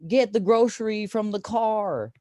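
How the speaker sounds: slow, high put-on Asian accent giving an order; imitating girlfriend's order. Girlfriend tells him to fetch groceries, slow mock Asian accent. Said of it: "then she's like".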